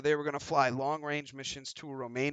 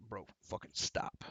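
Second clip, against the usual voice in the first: pleading; 5 semitones lower, 6 dB quieter than usual. Acted. Reaction to seeing someone vomit.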